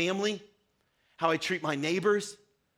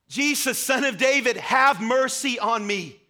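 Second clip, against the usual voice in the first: raised, pleading call, slow at the end; crying out for mercy; 4 semitones higher, 5 dB louder than usual. Acted. Blind Bartimaeus calling to Jesus over the crowd, a raised, pleading cry. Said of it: "He cries out".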